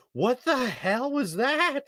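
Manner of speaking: high, slow, stretched-out bewilderment; baffled disbelief. Retold or imitated. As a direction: draw every word out in mock shock. Retold disbelief after awkward encounter.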